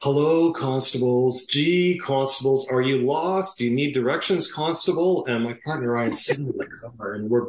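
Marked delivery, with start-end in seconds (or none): 0.0-5.2 sing-song mocking taunt, a bit higher; lightly imitated Russian taunting. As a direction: tease the cops with fake politeness. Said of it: "they were saying comments like".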